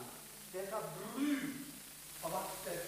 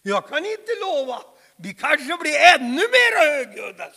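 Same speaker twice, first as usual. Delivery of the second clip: defiant reply; 7 dB louder than usual. Acted. Levi Petrus answering his critics, defiant. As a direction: refuse boldly, rising to the end. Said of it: "sa han".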